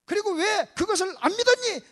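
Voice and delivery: staged scolding; acted rebuke. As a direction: press each question hard. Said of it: "하고 지금 책망하는 거예요".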